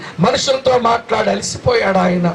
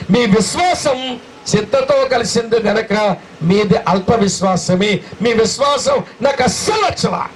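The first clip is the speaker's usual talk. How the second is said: Jesus rebuking disciples. Acted. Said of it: "శిష్యులతో మాట్లాడుతుంటాడు". (శిష్యులను గద్దిస్తూ గట్టిగా అరిచే యేసు)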